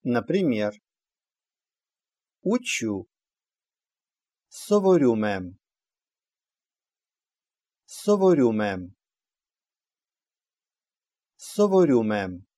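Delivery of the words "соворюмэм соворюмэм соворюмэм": Соворюмэм ending in an open э sound, мэм; letter е read as э. Shown as a demonstration. Teacher models the auxiliary verb rule, э sound closing Соворюмэм. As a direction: say the end of Соворюмэм with э, without a y-glide. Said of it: "читается".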